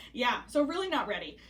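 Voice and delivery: talking with hiccups. Real, not acted. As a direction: hiccup between words. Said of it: "hiccuping is happening again".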